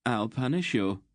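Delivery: peevish warning; threatening. Acted. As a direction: threaten like a spoiled favorite. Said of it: "he threatened".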